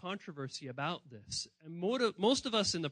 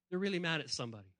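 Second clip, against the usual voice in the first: softer; 2 semitones lower, 6 dB quieter, much faster than usual. Shown as a demonstration.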